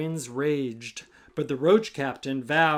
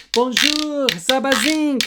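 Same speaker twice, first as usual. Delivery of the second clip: higher, louder call; 7 semitones higher, 4 dB louder than usual. Acted. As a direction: hail for help again. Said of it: "The fly tried again".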